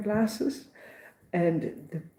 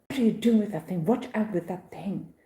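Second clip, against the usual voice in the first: rude; 3 semitones higher than usual. Retold or imitated. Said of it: "she's so rude to me".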